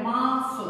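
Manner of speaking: माफ ending in a breathy f; nukta f sound. Shown as a demonstration. Teacher showing the dotted letter, माफ ending in f. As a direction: end माफ on f, not ph. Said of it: "नुक्ता लग जाता है तो उच्चारण क्या".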